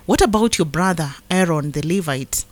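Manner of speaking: measured, solemn Bible reading; scripture reading. Acted. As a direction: read the verses as God's word to the flock. Reads scripture aloud.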